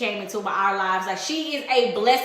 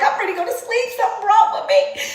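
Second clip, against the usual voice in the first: retold crying; 9 semitones higher, faster than usual. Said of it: "I was crying".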